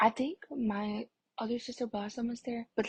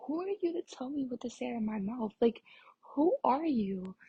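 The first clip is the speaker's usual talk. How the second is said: indignant challenge; 2 semitones higher than usual. Retold or imitated. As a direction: stretch out the final challenge, mildly outraged. Retold quarrel with pushy boy.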